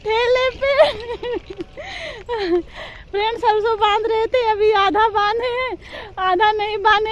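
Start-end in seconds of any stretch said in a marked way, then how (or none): 0.1-0.7 excited exclaiming. Real, not acted. Son runs off with the cart, she exclaims excitedly. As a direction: call out in laughing alarm.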